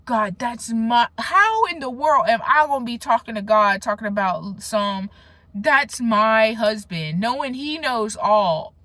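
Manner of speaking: retelling a fight with God in her prayer closet; pleading with God. Retold or imitated. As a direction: beg God, hold on to the word husband. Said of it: "I was literally fighting God".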